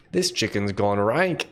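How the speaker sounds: put-on slow British accent repeated for chat; mock British accent, drawn out. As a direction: show off the British accent again, slowly. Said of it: "how was my British accent?".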